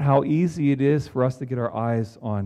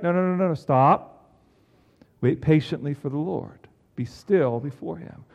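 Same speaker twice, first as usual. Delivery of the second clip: psalm writer's rebuke; 4 semitones higher than usual. Acted. Psalm writer stopping the fretting heart, firm then calm. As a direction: halt them, then settle the voice. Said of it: "the psalm writer is saying".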